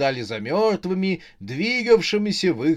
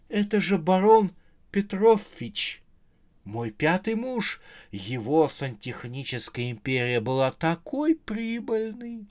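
exclaiming; 4 semitones higher than usual. Acted. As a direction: announce the surprise guest, pitched up. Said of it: "воскликнул Рожа". (удивлённое восклицание, высоким голосом)

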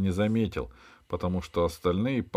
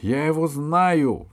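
высокий, громкий, протяжный возглас; перебей спорщиков звонким заявлением; вмешательство в спор; 8 semitones higher, 5 dB louder, slower than usual. A narrator's reading. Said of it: "вмешалась в спор Алиса". (громко вмешиваясь)

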